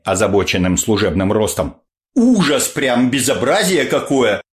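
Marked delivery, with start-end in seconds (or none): 2.1-4.4 indignant grandmother. Acted. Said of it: "заходились бабушки праведным гневом".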